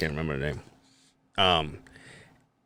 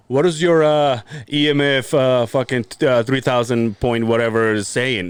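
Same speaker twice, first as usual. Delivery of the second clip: mock stiff scripted line; 4 dB louder than usual. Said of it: "I'm not gonna say".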